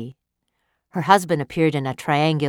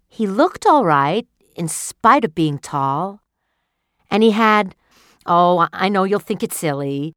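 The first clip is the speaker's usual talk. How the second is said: lightly voiced wife, tentative; hesitant dreamy wife; 3 semitones higher, 5 dB louder than usual. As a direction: confess the dream half-embarrassed. Wife's voice in the story.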